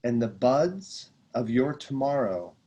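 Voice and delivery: slow, solemn reading of a sacred passage; reading scripture aloud. Acted. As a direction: read it like a meditation text, unhurried. Reads passage from The Prophet.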